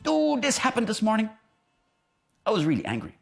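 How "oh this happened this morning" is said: high-pitched mock complaint; acted upset outburst; venting to a friend. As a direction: moan down the phone about the morning. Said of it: "call somebody and say".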